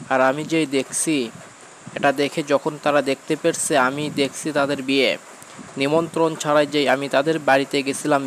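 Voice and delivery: put-on high, loud, urgent child's account; excited little boy. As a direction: act a boy loudly blurting out his adventure. Boy urgently tells grandmother of ghosts. (উত্তেজিত ছেলের চড়া, জোরালো গলা)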